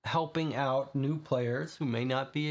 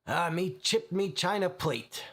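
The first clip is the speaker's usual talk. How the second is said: Cockney bellow; 5 semitones higher than usual. Acted. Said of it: "But then it bellows".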